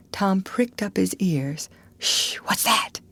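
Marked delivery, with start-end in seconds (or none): 2.0-3.0 hushed unvoiced whisper. A narrator's reading. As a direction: shush and whisper. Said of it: "he whispered".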